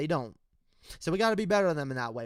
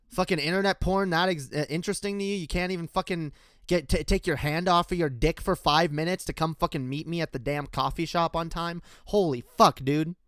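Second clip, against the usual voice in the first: mock exasperated rant; 4 dB louder than usual. Ribbing a late friend.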